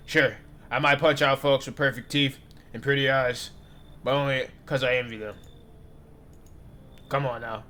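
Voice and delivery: a touch of a loud tipsy buddy; tipsy guy. Acted. Drunk visitor pleading to be let in, loud and loose. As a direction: slur it like a friendly drunk. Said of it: "You sound kinda tipsy".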